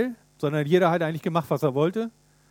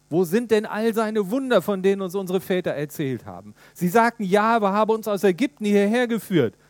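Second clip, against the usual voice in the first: higher, louder, bitter questions; complaining Gideon; 4 semitones higher, 4 dB louder than usual. Acted. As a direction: protest to the angel, hurt and reproachful. (Gideon klagt den Engel an, höher und lauter)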